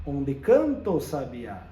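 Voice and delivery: Onde canto with the e and o of Onde merged into one syllable; joined vowels. Shown as a demonstration. Teacher showing students how vowels join when reading. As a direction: run onde into canto without a break. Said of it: "eu já junto as duas na leitura".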